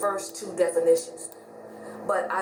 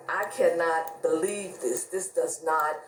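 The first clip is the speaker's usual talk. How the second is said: slow disbelief; 4 semitones lower, much slower than usual. Retold or imitated. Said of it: "I was like".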